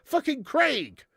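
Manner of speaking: "Craig" drawn out high as crayg; British Craig. Shown as a demonstration. Streamer exasperated by the wrong version, "Craig" as a long crayg. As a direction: stretch "Craig" to rhyme with vague. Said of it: "it's Craig".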